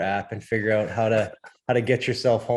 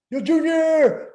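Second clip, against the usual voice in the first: high, drawn-out shout to a stranger; imitated yell; 5 dB louder, much slower than usual. Friend yelling out the car window at a fan, imitated holler. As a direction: holler it like a fan hailing another fan. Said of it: "he yells, just yells".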